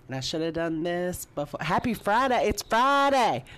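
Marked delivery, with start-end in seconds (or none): 1.6-3.4 excited. Real, not acted. Cheerful Friday greeting.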